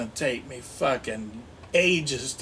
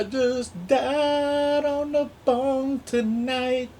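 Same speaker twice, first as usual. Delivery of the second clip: stoner voice; 10 semitones higher, slower than usual. Pretend. High slow stoner voice.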